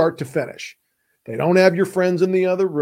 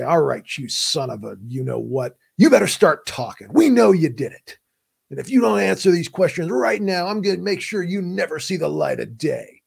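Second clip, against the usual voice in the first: movie cop yell. Retold or imitated. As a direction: play a movie cop threatening a suspect. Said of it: "in the movies ... they say".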